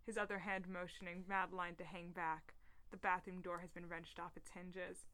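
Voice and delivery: low-key screenplay narration; script reading. A narrator's reading. Podcast host reads a leaked film scene aloud, subdued script reading. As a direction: read out stage directions evenly.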